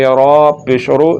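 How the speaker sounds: slow रा पेश रो with a thick r; full, heavy ra. Shown as a demonstration. Teacher spelling for pupils, heavy ra. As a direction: round and thicken the r in रो. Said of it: "इसको पुर करके पढ़ेंगे".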